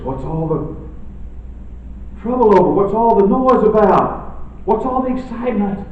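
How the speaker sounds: sly fox. Acted. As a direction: coax them like a crafty fox. Preacher voices sly Foxy Loxy.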